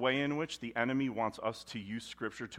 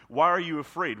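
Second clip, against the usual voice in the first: 1 pointed question; 3 semitones higher, 8 dB louder than usual. Acted. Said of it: "God's like".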